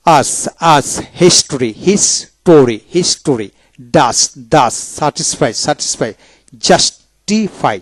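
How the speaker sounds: আস closed on a plain "s"; dental S. Shown as a demonstration. Teacher showing S at a syllable's end, dental S demonstration. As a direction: say হিস্ট্রি with "s" ending its first syllable. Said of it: "এদের উচ্চারণ দন্তাস্য হয়".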